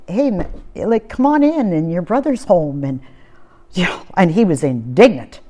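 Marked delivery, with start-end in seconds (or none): 0.1-2.8 gentle coaxing. Retold or imitated. Father coaxing elder son.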